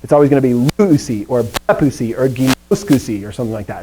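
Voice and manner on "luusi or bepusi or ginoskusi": "luusi", "bepusi", "ginoskusi" accented before -usi; LU-usi pattern, ending left unaccented; stress before the ending. Shown as a demonstration. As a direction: hit the syllable before "usi" in each word. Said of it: "I'm emphasizing this because the accent".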